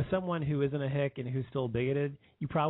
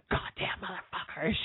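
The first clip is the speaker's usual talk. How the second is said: high, strained mock outburst; high-pitched retold cursing; imitated furious mother; 7 semitones higher than usual. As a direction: curse like an outraged mother, without extra volume. Acts out his furious mother.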